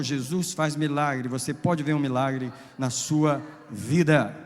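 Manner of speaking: loud, driving preacher's cry; loud pulpit preaching; full-force preaching. Acted. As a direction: preach it out to the whole church.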